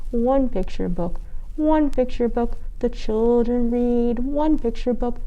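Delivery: rhythmic counting chant; sing-song reading. A narrator's reading. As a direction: read it like a chant. Counting book read to kids.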